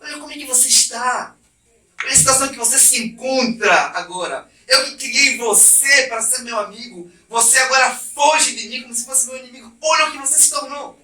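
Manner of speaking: pained, pleading rebuke; grieving God. Acted. God laments to Adam his miserable state, pained and pleading. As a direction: plead like a heartbroken friend. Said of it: "você fala assim".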